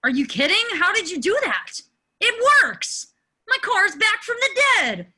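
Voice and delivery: a whooping cheer of delight; thrilled yell about the car; overjoyed. Acted. Car starts, Lane overjoyed.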